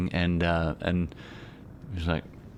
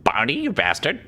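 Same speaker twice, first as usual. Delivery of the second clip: mock angry outburst; 8 semitones higher, 4 dB louder than usual. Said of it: "Kenku answers with a high outburst".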